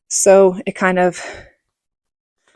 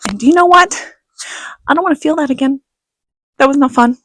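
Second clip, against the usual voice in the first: emphatic; 6 semitones higher, faster than usual. Real, not acted. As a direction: drive it home to them. Emphatic to viewers.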